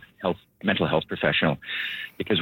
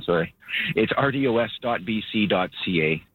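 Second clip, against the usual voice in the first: usual speaking voice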